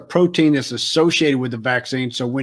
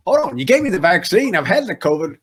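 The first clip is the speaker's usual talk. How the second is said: much higher, incredulous "What? Hold on"; retold disbelief; 4 semitones higher than usual. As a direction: jump up in pitch in mock shock. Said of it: "I'm like".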